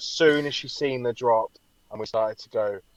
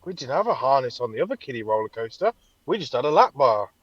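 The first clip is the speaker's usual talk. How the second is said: rising alarm; 3 dB louder than usual. Retold or imitated. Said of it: "And I was like".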